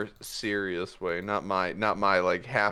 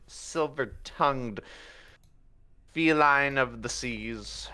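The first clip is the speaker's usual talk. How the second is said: grand boast. Acted.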